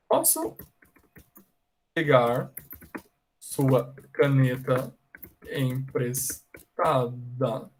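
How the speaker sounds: slow, drawn-out request, fading at the end. Pretend. Teacher pretending to borrow a pen, slow request. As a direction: ask slowly so the student can follow. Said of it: "And then I ask you".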